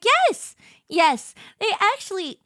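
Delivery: high, emphatic mock-earnest yes; sincere, serious zoologist. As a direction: imitate an earnest expert confirming it. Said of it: "very sincerely and very serious".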